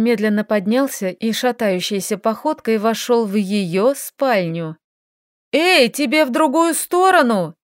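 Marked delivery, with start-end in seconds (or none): 5.5-7.6 indignant, higher call. Acted. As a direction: call after him, outraged. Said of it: "возмутилась Лилька".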